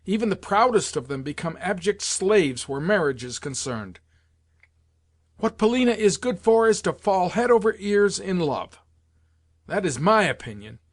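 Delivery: high-pitched, agitated tirade; impassioned, indignant outpouring; furious rant. A narrator's reading. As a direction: rail on heatedly, pitch riding high. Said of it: "I shouted in my fury".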